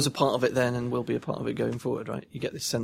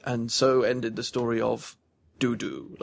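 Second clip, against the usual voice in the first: epic fantasy narrator; slower than usual. Retold or imitated. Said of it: "this kind of epic narration".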